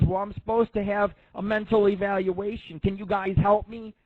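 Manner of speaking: mock pleading. Caller reenacts asking nurses for help.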